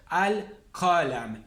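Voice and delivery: very slow 'Al-Qalam' with clear L; full lunar article. Shown as a demonstration. Teacher gives a lunar example, slow clear 'Al-Qalam'. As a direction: separate 'Al' from 'Qalam', L fully sounded. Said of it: "se lee al".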